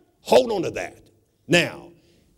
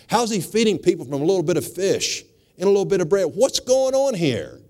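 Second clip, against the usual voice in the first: puzzled leaders. Retold or imitated. Preacher voices puzzled religious leaders.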